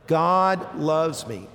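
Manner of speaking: very slow, stretched-out words; leading recitation. Shown as a demonstration. Preacher has congregation say it a third time, very slow recitation. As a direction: lead the room word by word, slowly. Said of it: "Say it a third time".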